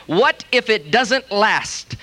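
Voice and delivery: slow, drawn-out mocking repeat. Preacher repeating the doubters' line, slow and mocking. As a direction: drag it out to show how negative. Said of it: "more negative, faith-stealing, unbelieving statement".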